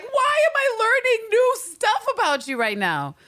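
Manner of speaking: high, loud disbelieving squeal; high surprised squeal. Retold or imitated. Aunt Anna surprised at new story.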